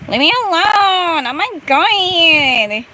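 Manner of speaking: put-on exasperated Latina accent, stretched vowels; spicy Latina accent. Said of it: "you're making the spicy latte accent come out".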